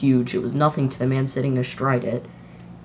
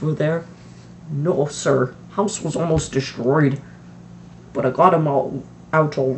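lightly voiced gruff giant, louder; a hint of a booming friendly giant; Hagrid voice; 3 dB louder than usual.

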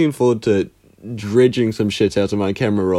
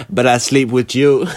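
lazy slurred flirt; drowsy seductive drawl; sleepy fuckboy; 3 semitones higher, slower than usual. Retold or imitated. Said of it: "fuckboy insomnia".

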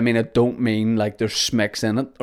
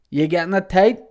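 calling out; 8 semitones higher, 4 dB louder than usual. Retold or imitated. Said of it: "he goes".

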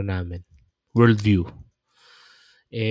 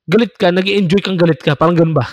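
animated example; 8 semitones higher, 7 dB louder, faster than usual. Retold or imitated. Illustrating enjoying one's anger.

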